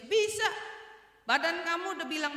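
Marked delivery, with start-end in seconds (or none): 0.0-0.4 "Bisa" popped up high; quick, sure "Bisa" in reply; confident answer. Acted. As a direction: lift "Bisa" sharply, no doubt. Acted confident answer to challenge.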